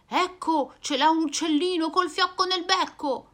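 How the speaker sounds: voce più acuta del cane; cane che scopre. Acted. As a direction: annuncia la scoperta. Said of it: "il cane fa". (il cane indica l'uccellino, più acuto)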